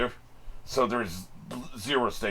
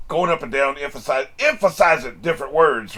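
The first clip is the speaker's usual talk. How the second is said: each word pushed up and down, louder; emphatic demo; 4 semitones higher, 6 dB louder than usual. Shown as a demonstration. Explaining a voiceover to viewers, with lively pitch emphasis.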